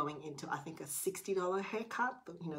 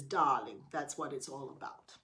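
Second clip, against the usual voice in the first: a light put-on accent for the barber, lower on Darling; 4 semitones lower than usual. Barber calls customer darling, in a light put-on accent. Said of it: "sorry about the accent".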